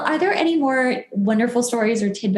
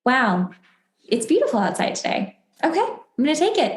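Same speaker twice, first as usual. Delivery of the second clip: mock cheerful gratitude; 6 semitones higher, faster than usual.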